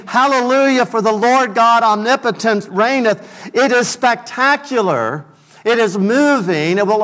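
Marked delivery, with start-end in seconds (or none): 0.1-3.2 echoing the choir. Retold or imitated. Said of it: "choir and orchestra is singing".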